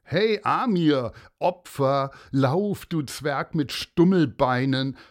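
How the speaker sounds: loud mocking schoolboy taunt; loud schoolyard jeer; jeering bully. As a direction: taunt him like a cocky bully. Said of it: "hörte man einen anderen Jungen feixen".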